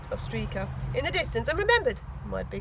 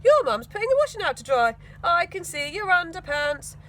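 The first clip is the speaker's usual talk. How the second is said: put-on higher girlish voice, louder; Tina's excited voice; 5 semitones higher, 5 dB louder than usual. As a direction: voice Tina spotting from the tree. Girl character voiced in story.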